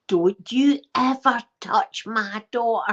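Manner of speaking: slow hushed menace, mum's warning; whispered mum threat. Retold or imitated. Mum warning the teacher, slow hushed threat. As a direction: breathe the threat slowly. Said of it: "my mum outside going".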